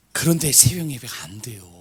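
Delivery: hushed, breathy admission; whispered confession. Retold or imitated. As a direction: let it slip out in a whisper. Preacher confides failure.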